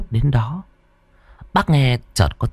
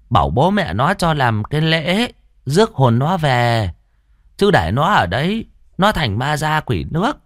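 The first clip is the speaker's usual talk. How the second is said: reassuring; 6 semitones higher than usual. Acted. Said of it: "Cụ trấn an".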